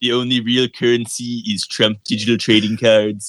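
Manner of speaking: mock Trump boasting about his trading cards; a clumsy Trump imitation for laughs; Trump impression. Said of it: "worst accent I've heard out of everyone".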